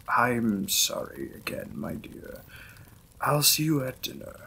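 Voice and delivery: courteous lord apologizing to his new wife; lightly voiced lord's role, close to own voice; Victorian lord. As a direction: play the polite, slightly shy vampire lord.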